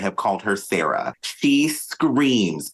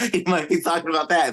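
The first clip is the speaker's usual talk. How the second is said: high, quick country twang; country accent; 9 semitones higher, faster than usual. Acted. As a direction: play up a country accent, pitched up and fast. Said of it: "that was my country accent".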